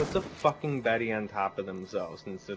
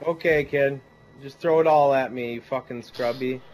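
loud taunt at an enemy; yelling; 3 semitones higher, 7 dB louder than usual. Real, not acted.

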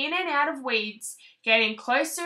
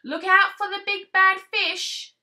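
louder, higher warning; warning call; 6 semitones higher, 6 dB louder than usual. Acted. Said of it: "called Mother Frog".

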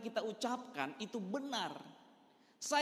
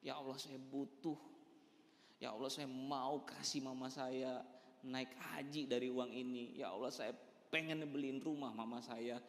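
earnest pleading prayer; 6 semitones lower, 5 dB quieter than usual. Retold or imitated. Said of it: "minta benar-benar sampai nangis sama Allah".

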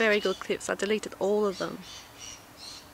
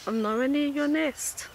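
pitched-up pet talk to a bird; coaxing the bird; 5 semitones higher than usual. Real, not acted. Reassuring the bird he is nowhere near its nest, higher coaxing. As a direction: sweet-talk an angry bird.

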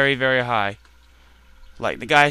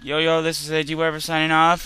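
youtuber outro. Real, not acted. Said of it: "say my outro".

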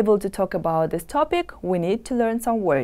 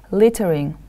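Littering with the stress on LIT; teacher's LIT-tering, first syllable leading; 4 dB louder than usual. Shown as a demonstration. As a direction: model Littering for learners, leaning on the first syllable. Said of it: "The stress is on the first syllable".

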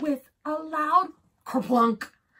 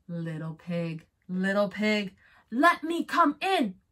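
wolf voice; 3 semitones lower than usual. Acted. Wolf calls at the door again.

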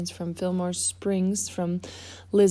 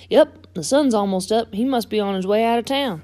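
lightly voiced eager truck; a touch of eagerness; lightly pitched-up storybook character; excited tow truck character; 3 semitones higher, 5 dB louder than usual.

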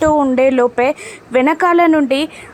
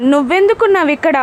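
angry; 5 semitones higher, faster than usual. Acted. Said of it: "అడుగుతాడు గగన్ కోపంగా".

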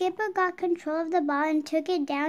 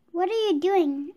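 a touch of anger, lightly voiced; indignant question from a shoved player; mildly angry demand; 2 semitones higher, 5 dB louder than usual. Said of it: "asked Alexis angrily".

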